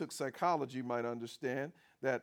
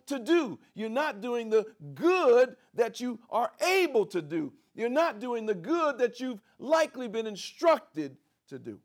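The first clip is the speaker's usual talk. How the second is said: loud, rising preacher's build; full-force preaching; 7 semitones higher, 9 dB louder than usual. Acted. Preacher pressing the congregation, loud and building. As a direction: drive it home from the pulpit.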